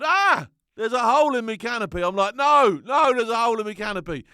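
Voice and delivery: high, loud and fast, in rising alarm; retold panic at a hole in the canopy; panicked yell. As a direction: shriek it as if the parachute is failing. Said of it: "So now I'm panicking".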